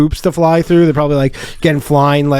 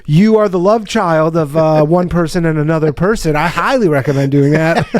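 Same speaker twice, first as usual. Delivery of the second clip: higher, laughing official voice; mock bureaucrat advisor; 4 semitones higher than usual. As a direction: lampoon a pompous humor official. Voicing the humor department head.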